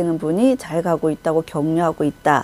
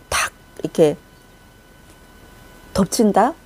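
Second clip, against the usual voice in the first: whisper. Retold or imitated. Ambush attack moment.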